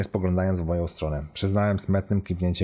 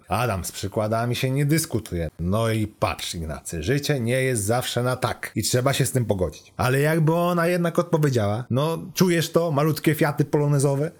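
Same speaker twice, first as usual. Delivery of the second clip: higher, breezy know-it-all computer; lightly voiced chatty AI; 6 semitones higher than usual. Car computer advises the lovestruck student, chatty and cheeky. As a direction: lightly play an AI rattling off romantic advice.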